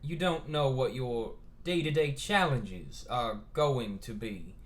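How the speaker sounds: a light Southern retake, slow; a faint Southern gentleman voice; Southern accent. Acted. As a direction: try to get the Southern drawl back.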